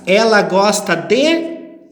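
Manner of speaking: slow and measured, word by word; emphatic teacher pace with a pause before the last word; slow example sentence. Shown as a demonstration. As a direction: present the example deliberately to a class. Repeating the model example sentence.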